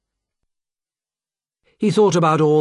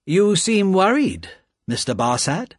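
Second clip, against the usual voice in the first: calm; 8 semitones higher than usual. A narrator's reading. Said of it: "said Carton calmly".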